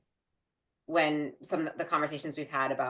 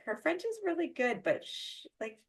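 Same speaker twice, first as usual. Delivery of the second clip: kids mimicked; 10 semitones higher, 6 dB quieter than usual. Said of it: "They were like".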